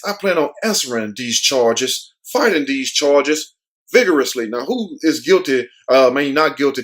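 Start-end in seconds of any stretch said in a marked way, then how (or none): 0.1-4.5 formal statement. Retold or imitated. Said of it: "he says".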